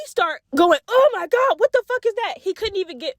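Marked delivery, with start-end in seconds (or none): 0.9-2.3 high, choked mock disgust; mock disgusted cousin. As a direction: imitate a kid gagging on water.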